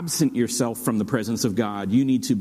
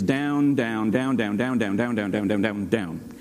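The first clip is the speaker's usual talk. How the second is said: descending repetition; 3 semitones lower than usual. Shown as a demonstration. Preacher traces Jonah's descent, voice sinking step by step. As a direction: pitch stepping steadily lower on each down.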